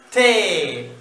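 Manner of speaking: "Elefante" spoken slowly. Shown as a demonstration. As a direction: stretch "Elefante" syllable by syllable. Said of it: "el secreto es decirlo despacito".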